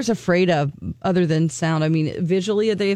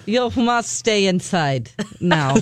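mock Russian accent. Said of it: "can you do a Russian accent".

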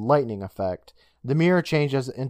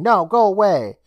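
alarmed refusal; 7 semitones higher, 6 dB louder than usual. Acted. Frightened girl refusing the old man.

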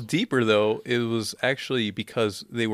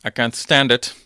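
crappy British; 5 dB louder than usual. Retold or imitated. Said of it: "And he's like".

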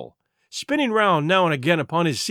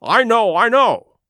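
raised and higher, urgent; crying out; 6 semitones higher, 6 dB louder than usual. A narrator's reading. Doctor crying out to Jim to flee, raised. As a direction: cry it out in distress. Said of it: "he cried".

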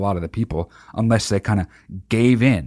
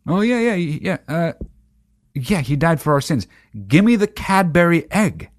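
put-on raised, bored kid brushing it off; dismissive kid; 5 semitones higher than usual. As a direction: rattle it off just to get the candy. Kid faking belief for chocolate.

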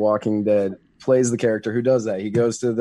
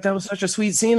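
much higher, mock-sweet gushing; mock gushing fans; 8 semitones higher than usual. Friend mocking film fans, much higher mock-sweet gush. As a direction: gush like a swooning fan. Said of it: "so many people were like".

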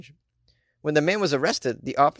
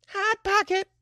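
very high-pitched tagline; high slogan squeal; slower than usual. Acted. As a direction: pipe the product name up high. Repeats the man's slogan.

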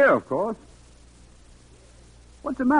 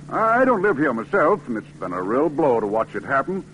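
put-on rueful older man. Mr Bell laments the town.

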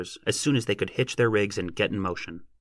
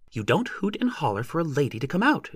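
put-on higher, tart young lady's complaint; tart, irritated; 7 semitones higher than usual. A narrator's reading. Young lady chiding the driver who hollered, tart. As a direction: scold him tartly, voice pitched up. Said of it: "Lossie was irritated ... she said tartly".

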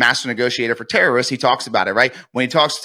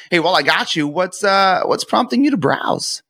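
higher, lifted curious question; curious tonality; 5 semitones higher than usual. Shown as a demonstration. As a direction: ask it like you genuinely wonder. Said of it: "My tonality is a curiosity tonality".

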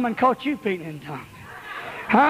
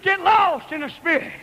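"Get lost in the Spirit" called out strong; 4 semitones higher than usual. Real, not acted. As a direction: cry out the command. Repeated exhortation, loud then soft.

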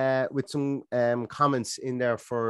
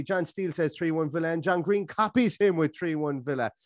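raised, brisk auctioneer calling bids; 4 semitones higher than usual. Pretend. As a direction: rattle off each score like a lot at auction. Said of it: "for my auctioneer's, uh, impression".

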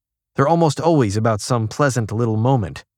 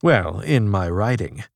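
pompous voice; 2 semitones lower than usual. Retold or imitated. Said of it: "he assumes a pompous voice".

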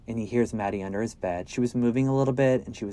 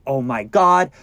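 put-on panicked boy's outburst, rising higher as it runs; freaked out; 7 semitones higher, 4 dB louder than usual. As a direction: work yourself into a high-pitched panic. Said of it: "Josh gets freaked out".

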